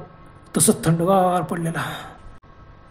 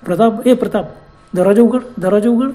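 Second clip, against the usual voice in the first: louder urgent calls at the car door; calling out loudly; 3 semitones higher, 4 dB louder than usual. Acted. Rupa calling Pratap loudly at the car door. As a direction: call him while banging the door. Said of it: "जोरजोरात गाडीचा दरवाजा ठोकला".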